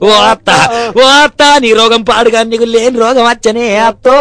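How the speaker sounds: mock wailing. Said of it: "అని మొత్తుకోవట్టే".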